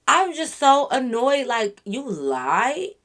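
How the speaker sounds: very slow, stretching out the annoyance; drawn-out disbelief. Real, not acted. Vlogger telling viewers how annoyed she is, slow disbelief. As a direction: let "lied" hang on a rise.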